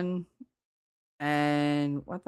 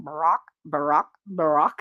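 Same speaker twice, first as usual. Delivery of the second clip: chicken squawk. Retold or imitated. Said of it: "walk around going".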